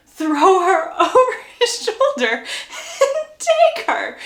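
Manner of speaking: high, laughing squeal of delight; cracking up, last words stretched. Real, not acted. Storyteller reacting to the hero carrying her off, real gleeful laughter.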